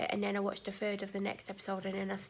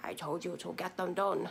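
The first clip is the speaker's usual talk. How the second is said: lower, put-on scolding voice. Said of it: "She doesn't talk like that".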